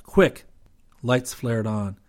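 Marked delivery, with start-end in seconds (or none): 0.0-0.5 sharp, high, loud call; urgent call. A narrator's reading. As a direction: urge them on with a shout. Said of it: "he called".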